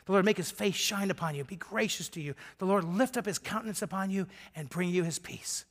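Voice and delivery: put-on soft, hushed blessing over a child; tender blessing. Father quietly blessing his little child before play, tender. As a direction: bless him gently, quietly. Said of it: "I'd look at him, and I'd say".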